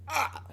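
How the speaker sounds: small yelp of frustration; frustrated "ah". Real, not acted. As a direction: vent briefly, words failing. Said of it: "I'm getting frustrated".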